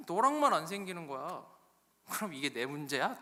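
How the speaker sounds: acted husband's retort with one loud burst; mild mock marital anger; angry Jacob. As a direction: argue back, turning the blame on her. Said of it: "야곱이 열이 받는 거죠".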